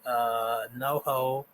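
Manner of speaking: a hint of a dismissive Lestat; casual mock Lestat, barely shifted from own voice; Lestat impression. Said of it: "that's my Lestat impression".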